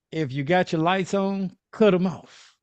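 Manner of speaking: lightly voiced soul singer; a hint of a soul crooner's voice; impression of a soul singer. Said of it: "was that Teddy, Teddy Pendergraft voice?".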